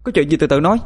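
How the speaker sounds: furious scolding. A narrator's reading. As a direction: snap at the crowd in outrage. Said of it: "Bà tôi lao lên quát".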